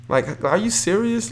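high-pitched disbelieving question; can't believe what he's hearing; incredulous. Real, not acted. Disbelief at the haters.

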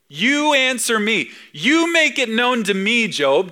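mock-sarcastic divine demand; sarcastic God. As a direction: needle Job like a parent. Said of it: "Don't you love that sarcasm?".

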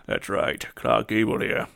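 lightly voiced old-time film star; mild movie idol impersonation making an announcement; a hint of a screen legend; Clark Gable. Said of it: "this is my Clark Gable".

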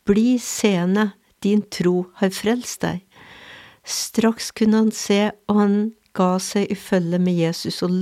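measured, solemn Gospel reading; scripture reading. Acted. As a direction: read the Gospel text steadily to the congregation. Reads the gospel text aloud.

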